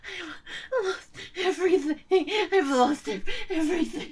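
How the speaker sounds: sobbing in despair; tearful breaking voice; crying. Acted. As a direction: choke the words through tears. Despair at loss, crying heard.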